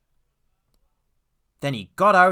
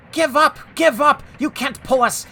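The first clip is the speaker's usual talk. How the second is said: high, loud jeering chant; calling out; 12 semitones higher, 6 dB louder than usual. A narrator's reading. Trucks taunting the struggling engine, calling out shrilly. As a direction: jeer in short, high bursts. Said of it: "called the trucks".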